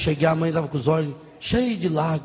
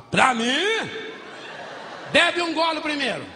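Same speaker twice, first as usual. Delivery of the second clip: suspicious mother-in-law; 9 semitones higher, slower than usual. Retold or imitated. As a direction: make him taste it first, she suspects poison.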